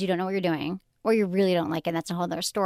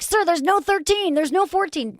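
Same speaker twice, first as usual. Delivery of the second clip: higher, louder, slow disbelief; exasperated; 10 semitones higher, 4 dB louder, slower than usual. Retold or imitated. Arguing with the drive-through guy over the missing numbers, exasperated. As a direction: spell it out to him in mock exasperation.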